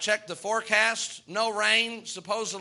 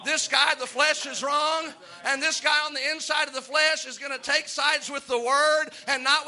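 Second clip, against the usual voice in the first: raised, fervent pulpit voice with rolling emphasis; preaching; 4 semitones higher than usual. Acted. Pastor preaching Romans seven to his church, fervent. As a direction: preach it to the congregation.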